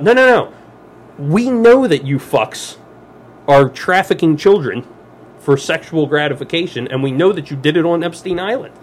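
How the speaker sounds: rising, heated accusation; angry rant. Real, not acted. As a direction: hammer it home, fired up.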